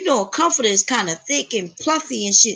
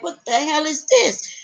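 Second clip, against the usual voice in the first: mild mock outrage, pitched up; retold anger; 5 semitones higher than usual. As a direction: replay angry disbelief without shouting. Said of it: "I was angry".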